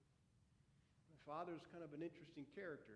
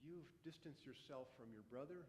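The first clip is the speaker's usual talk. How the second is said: put-on a father gently pleading with his angry older son; gentle pleading father. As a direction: coax the son back in, tenderly. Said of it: "my father kept pleading with me and saying".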